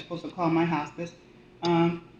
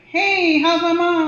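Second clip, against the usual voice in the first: higher, brighter voice for the daughter; a higher voice for the daughter asking about her mom; daughter on the phone; 10 semitones higher, 7 dB louder, slower than usual. Retold or imitated. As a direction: lightly play the caller checking in.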